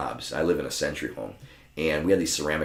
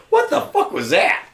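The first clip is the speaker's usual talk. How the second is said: high, slow, laughing what the; laughing disbelief; 6 dB louder, slower than usual. Retold or imitated. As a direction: laugh out the baffled question. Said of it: "I'm like".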